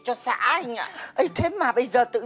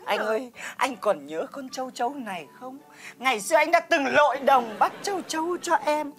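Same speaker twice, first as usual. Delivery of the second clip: wistful reminiscing. Acted. Neighbour reminds him of catching locusts for her, wistful reminiscing. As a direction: linger tenderly over each memory. Melodramatic reminiscence to friend's husband.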